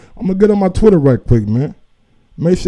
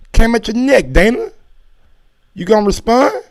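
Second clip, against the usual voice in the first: raised, higher taunting call-out; calling out Dana; 6 semitones higher, 4 dB louder than usual. Real, not acted. Vlogger taunting Dana White to respond, loud and higher. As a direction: needle him loudly to answer.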